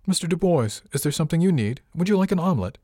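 a young cook voiced high and brightly courteous; polite cook. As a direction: sweet-talk him while keeping him at arm's length. Maloney addresses the leering guest.

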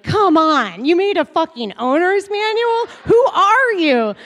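imitating his panicked inner voice; inner freak-out. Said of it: "he's freaking out inside".

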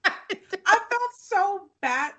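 high, drawn-out words through real laughter; laughing through words. Real, not acted. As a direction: try to say it while cracking up. Fighting giggles over sad scene.

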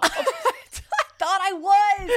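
laughing through the words, high and loud; giggling protest. Real, not acted. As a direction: crack up while insisting. Caught in her own lie.

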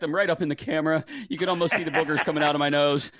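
slightly winded, quick talking; out of breath. Real, not acted. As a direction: talk out of breath after marching. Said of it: "I'm out of breath from my marching in place".

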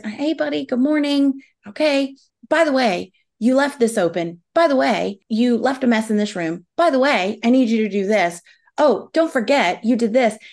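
lightly voiced chirpy mom greeting her son; cheery parent voice. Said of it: "he comes down the stairs".

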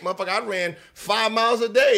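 loud, indignant rant; offended outburst. Retold or imitated. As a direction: retell the outrage loudly. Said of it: "I was like".

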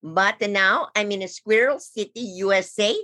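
lightly put-on Italian accent. Squirrel Coney explains where he lives, light Italian accent. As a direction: tell your squirrel story with a light Italian lilt. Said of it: "is it actually your real accent or are you mocking us".

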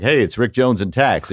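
a hint of the colleague from tax on the phone; imitating Rick Jones. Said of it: "I can do that voice".

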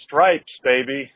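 ordinary delivery

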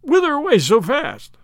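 put-on loud, high drunken leer; tipsy man blocking the way. A narrator's reading. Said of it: "he hiccuped".

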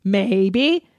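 lightly hammed-up romance novel narration; mock-dramatic reading. Reading Fifty Shades aloud to listeners, mock-dramatic. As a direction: read it as steamy fiction, mildly hammed up.

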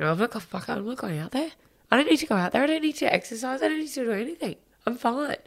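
mock tantrum, refusing to budge; imitating her younger self refusing her brother; toddler tantrum. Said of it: "like a toddler throwing a tantrum".

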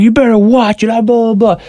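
lightly hammed-up angry chirp; repeated threat. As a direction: imitate him nagging the same threat. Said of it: "He keeps repeating himself".

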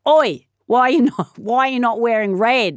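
jeering playground shout; accusing classmates. Acted. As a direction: call them out like a kid in class. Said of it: "and they're like".

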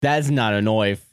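mock Crocodile Dundee. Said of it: "Crocodile Dundee ass".

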